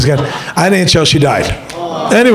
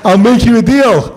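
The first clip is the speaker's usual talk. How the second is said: aunt's offer; 6 semitones higher than usual. Retold or imitated. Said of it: "she goes".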